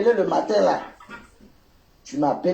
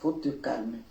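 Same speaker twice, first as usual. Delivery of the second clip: low, very soft agreement and reassurance; real placating; 7 semitones lower, 13 dB quieter than usual. Real, not acted. Agreeing with an upset caller to calm them, softly. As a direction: placate them gently, well below normal volume.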